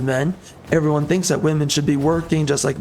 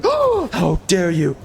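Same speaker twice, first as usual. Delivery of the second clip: slow, drawn-out fake indignation; mock outraged shout; slower than usual. Mocking progressives who freak out, slow hammed-up outraged shout. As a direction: shout it like a scandalized pearl-clutcher.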